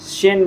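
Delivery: शेन said with a light t before it, as German "zehn"; German pronunciation. Shown as a demonstration. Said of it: "हल्का सा टॉ सेन".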